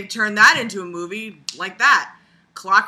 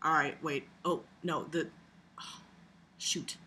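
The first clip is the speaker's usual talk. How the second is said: mock director; 4 semitones lower than usual. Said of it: "The director's like".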